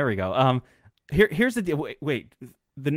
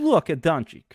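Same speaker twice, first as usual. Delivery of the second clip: mock Latvian accent; 3 semitones higher than usual. Shown as a demonstration. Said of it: "That's only in my Latvian accent".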